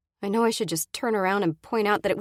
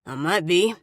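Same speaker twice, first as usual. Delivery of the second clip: a hint of a menacing man, louder; snarl; 5 dB louder than usual. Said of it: "he snarls".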